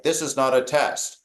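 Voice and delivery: lightly imitated, low-pitched emergency recording; a hint of measured automated warning; recorded announcement. Emergency broadcast telling people to evacuate, recorded-announcement manner. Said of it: "like, a recording".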